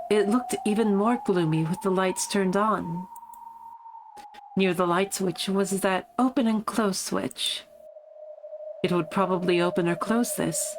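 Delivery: measured storytelling in a lightly affected voice; lightly voiced game narrator. Reading a creepy story to viewers, lightly affected narrator. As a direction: read it as a character recounting events.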